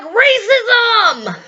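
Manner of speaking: high shouted cry of racism; hammed-up indignant shout; mock outraged cry. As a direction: yell it like a mock accusation. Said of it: "And they're like".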